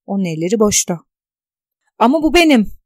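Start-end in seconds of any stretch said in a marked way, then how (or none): 2.0-2.7 high, loud cry of shock; shouting. Acted. Tuna seeing her own photo in the paper, shouting. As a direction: blurt it out in disbelief. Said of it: "diye bağırdı".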